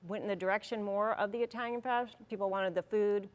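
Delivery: talking around a cough drop; cough drop in mouth. Real, not acted. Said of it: "I have a cough drop in my mouth".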